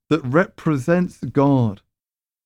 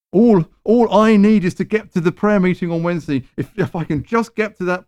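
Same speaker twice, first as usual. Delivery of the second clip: lightly voiced, a touch higher and louder; mock needy believer; 5 semitones higher, 3 dB louder than usual. Preacher mimicking a congregant fixated on the prayer meeting, lightly higher. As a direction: mimic someone craving the meeting. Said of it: "See the difference?".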